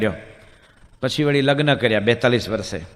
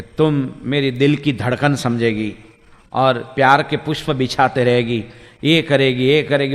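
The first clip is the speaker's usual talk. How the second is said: poetic lover; slower than usual. Retold or imitated. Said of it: "કાવ્યાત્મક ભાષામાં બોલવા માંડ્યો".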